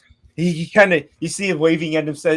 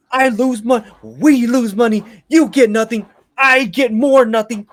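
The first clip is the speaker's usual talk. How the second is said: high, slow, emphatic complaint; exasperated quest-giver; 4 semitones higher, slower than usual. Acted. Quest-giver telling the party everyone gets nothing, exasperated. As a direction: spell out each grievance in frustration.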